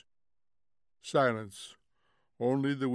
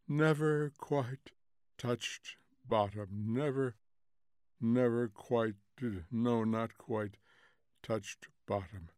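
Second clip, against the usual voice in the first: slow, halting, sinking narration; dreamy falling narration; 4 dB quieter than usual. A narrator's reading. Narrator falling endlessly into emptiness, slow and fading. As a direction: let each phrase drift downward into pauses.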